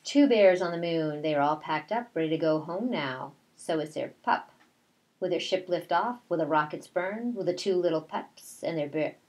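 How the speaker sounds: put-on reading to children. A narrator's reading. Teacher reads rhyming picture book.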